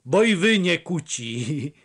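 high, amused comeback; laughing retort. A narrator's reading. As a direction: tease back with a touch of laughter. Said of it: "zaśmiał się Paweł".

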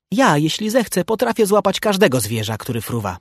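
high-pitched boastful claim; boasting. A narrator's reading. Bursztyn boasts he can catch any flier, boasting.

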